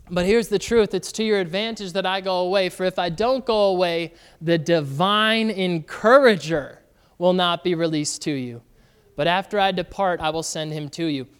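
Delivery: measured pulpit reading; scripture reading. Acted. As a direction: read the words of Jesus with weight. Pastor reads Passion Translation aloud.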